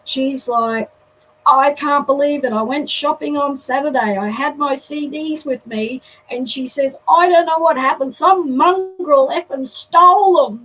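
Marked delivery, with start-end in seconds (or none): 1.5-10.6 loud, furious rant; girl cursing loudly about her stolen CDs. Retold or imitated. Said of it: "she's cursing".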